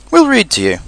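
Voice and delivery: high, breezy offer; cheerful. A narrator's reading. Rabbit consoling stuck Pooh, cheerful. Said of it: "said Rabbit cheerfully".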